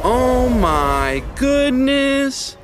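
high, very drawn-out startled shout. A narrator's reading. Levi jumps back from the trees, shouting high and startled. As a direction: jump back and cry it out, high and slow. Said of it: "Levi shouted".

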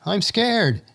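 high fearful shout. Acted. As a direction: call out in fear across the valley. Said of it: "someone shouts out".

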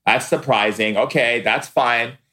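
a hint of sulky dismissal, drawn out at the end; mildly imitating the friend's miffed okay; retold attitude. Friend brushing off his refusal to visit, mild huffy imitation. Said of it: "She's like".

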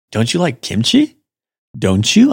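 "Don't you like kimchi?" with the pitch climbing on "kimchi"; drop, then lift "you" at the end to ask; questioning inflection. Shown as a demonstration. Teacher showing listeners how English asks by inflection, questioning lilt. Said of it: "via inflection".

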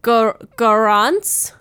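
"Garance" said slowly, questioning, as "gah-RAHNS"; French pronunciation. Shown as a demonstration. Needing help with the French name, "Garance" as hesitant "gah-rahns". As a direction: attempt "Garance" haltingly, rising at the end. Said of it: "Her name in French".

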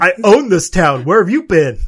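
mob boss. Pretend. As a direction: boss the town around like a mobster. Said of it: "Buck's like a mob boss".

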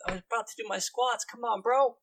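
put-upon bro character voice; annoyed bro boss. Acted. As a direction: protest like a gym bro kept from his workout. Game master voices bro guildmaster.

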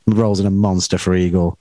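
usual speaking voice

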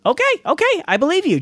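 amused okay, okay; laughing. A narrator's reading. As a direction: laugh it off while conceding. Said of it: "Joey laughed".

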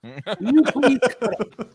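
slowed, sarcastic pleading tone; drawn-out fake-polite plea to the neighbor; mock whiny request. Mocking the neighbor's complaint in a sarcastic polite voice.

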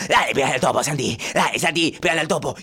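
insistent dad urging; father cheering on. Acted. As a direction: keep pushing the kid to hit it. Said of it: "el papá de Santi empieza a incentivarlo".

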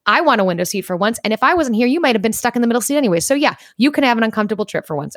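mock-indignant airing of a long-held grievance; retold angry outburst. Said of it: "I don't know why you're so angry".

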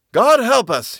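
high, loud bellow. A narrator's reading. Soldier to the man next to him in the trench, bellowing. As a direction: bellow it over the battle. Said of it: "he bellowed to the man next to him".

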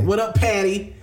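weak attempt at a rapper voice; impression of a rapper. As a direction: try the rapper's greeting, half-hearted. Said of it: "I can't nail his voice".

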